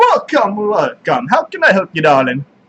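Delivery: high-pitched, loud, animated delivery. Voicing Bart greeting the players' characters as they look around: voicing Bart. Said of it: "you see Bart look up, grumbles, and then he comes in".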